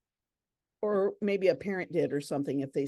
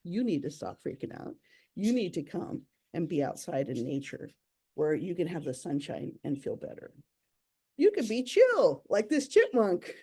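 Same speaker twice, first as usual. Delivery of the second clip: mellow owl; 2 semitones lower than usual. Pretend. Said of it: "this great horned owl says".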